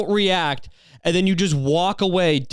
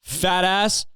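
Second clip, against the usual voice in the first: higher-pitched mock yell, crude and taunting; pretend yell; 6 semitones higher than usual. Vlogger imagines yelling back at the man who mooned him, pretend yell. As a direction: hurl a mocking yell across the street. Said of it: "Should've just yelled at him".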